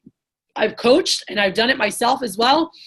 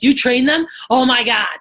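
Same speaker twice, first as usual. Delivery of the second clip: imitated amazement; 2 semitones higher, 5 dB louder than usual. Successful people hearing she trains sales reps, amazed. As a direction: act out their astonished reaction. Impressed people react to her job.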